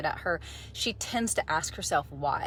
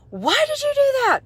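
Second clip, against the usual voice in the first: high, loud angry coach yell; 8 dB louder than usual. Retold or imitated. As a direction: bark it like a furious coach. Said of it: "had a coach scream at us and yell that".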